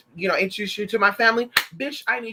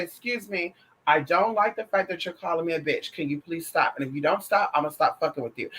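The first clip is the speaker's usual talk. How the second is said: polite warning. Pretend. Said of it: "You're gonna say".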